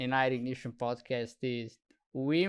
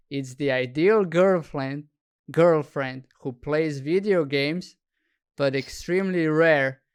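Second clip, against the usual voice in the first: reading a definition; 6 dB louder than usual. Shown as a demonstration. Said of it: "This is what gamer girl is in Urban Dictionary".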